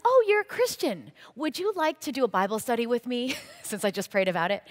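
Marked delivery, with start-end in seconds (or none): 0.1-3.4 much higher and louder, eager invite; excited. Retold or imitated. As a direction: burst out in joyful surprise.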